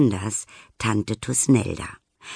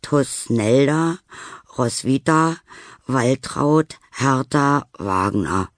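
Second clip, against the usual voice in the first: grave voice; 3 semitones higher, slower than usual. Acted. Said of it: "murmelt sie mit Grabesstimme".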